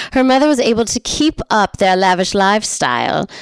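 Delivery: amateur put-on English accent; terrible English accent. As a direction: keep up a bad English accent. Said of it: "talking in this terrible accent".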